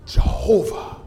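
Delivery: driving sermon cadence, punching the key words; impassioned preaching. Real, not acted. Extolling the Lord God to the church, impassioned preaching. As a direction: proclaim it to the congregation in rolling phrases.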